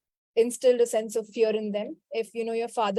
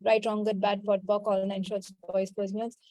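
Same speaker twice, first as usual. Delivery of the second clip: rote recitation; 2 semitones lower than usual. Real, not acted. Healer to her class, reciting a clearing formula by rote. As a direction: recite a memorised formula smoothly.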